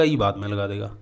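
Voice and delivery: ordinary talk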